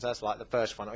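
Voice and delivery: ordinary talk, nothing marked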